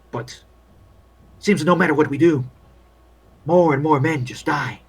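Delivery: world-weary field doctor grumbling; lightly voiced war medic venting doubts; weary army doctor.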